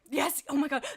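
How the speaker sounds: loud laughing yes; laughing joy. Real, not acted. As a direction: burst out laughing with delight. Delighted at chat comment.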